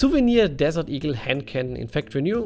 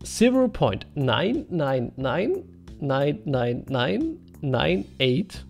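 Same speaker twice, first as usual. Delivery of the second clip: German accent; 3 semitones lower, much slower than usual. Real, not acted. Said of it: "It will sound funny because I'm German".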